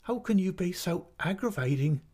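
high-pitched, aggrieved mother; tearful reproach. A narrator's reading. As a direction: scold as if close to tears. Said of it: "shedding more tears than before".

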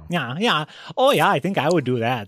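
broad Upper Midwest accent; hearty deep Wisconsin voice. Shown as a demonstration. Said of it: "That's my deep Wisconsin accent right there".

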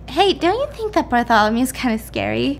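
offhand question in an everyday voice; casually floated question. Retold or imitated. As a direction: toss it out lightly, like small talk. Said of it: "she said it so casually".

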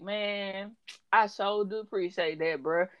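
lightly imitated client, soft; a hint of a slow, mellow talker; slow-talking client. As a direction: mimic a laid-back man saying thanks. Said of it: "like, a slow talking person".

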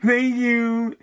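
lightly put-on mocking politician voice; smug, slow mock of a politician; Kamala impression.

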